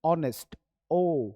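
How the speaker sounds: ऑनेस्ट then a lone ओ, the first sound pulled out; ऑनेस्ट and then just ओ, said apart; isolating the O sound. Shown as a demonstration. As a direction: split ऑनेस्ट down to its opening ओ. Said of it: "तो पहले बोलेगा ओ".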